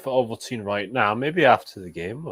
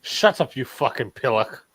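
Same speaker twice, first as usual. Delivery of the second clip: mock British insult. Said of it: "Where did you pick up the word pillock".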